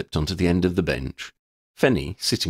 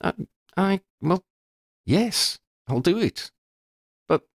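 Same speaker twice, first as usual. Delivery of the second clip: stammering; 13 semitones higher than usual. A narrator's reading. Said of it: "Shona stammered".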